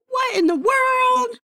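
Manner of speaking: big high slow shout. Shown as a demonstration. Showing capital letters in an email, shouting. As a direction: yell it like all capitals. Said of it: "you have to use capitals to be like".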